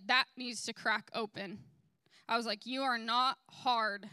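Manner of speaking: retold blunt confrontation, firmly stressed; blunt, aggressive. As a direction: tell them straight, with mild force. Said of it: "a little bit blunt and aggressive".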